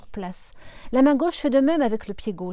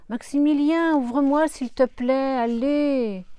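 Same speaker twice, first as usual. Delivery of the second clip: insistent call; 4 semitones higher, 5 dB louder, slower than usual. Acted. Dancer insists, calling out.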